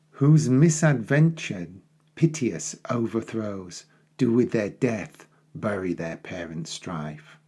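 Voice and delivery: measured, dramatic verse recitation; poem reading. Acted. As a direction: read it like a stage prologue. Reads the prologue aloud.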